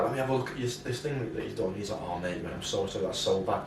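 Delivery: softly, like a barber sharing bad news quietly; hushed sympathy. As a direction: drop the voice, mock sorry over the bad trim. Second barber inspects bad cut.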